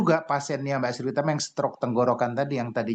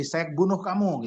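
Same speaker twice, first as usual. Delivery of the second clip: mock yell; 5 semitones higher than usual. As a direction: imitate a yell without really shouting. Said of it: "gitu, ya, sambil teriak".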